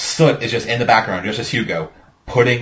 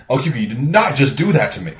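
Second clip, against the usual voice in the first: mild underreaction. Retold or imitated. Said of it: "seems like a little underreaction to getting fucking shot".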